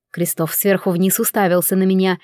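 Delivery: ordinary delivery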